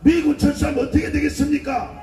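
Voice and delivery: preaching at full force to a crowd; fiery rally speech. Acted. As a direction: hammer each line out to a street rally.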